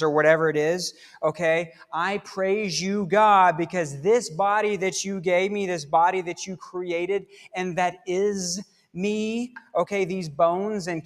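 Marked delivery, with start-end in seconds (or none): 1.9-9.5 heartfelt praise. Acted. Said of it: "David does the opposite right here".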